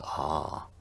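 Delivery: ah drawn out at the back; long open ah. Shown as a demonstration. Teacher listing another way to say A, long back ah. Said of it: "pronounce the letter A as ah".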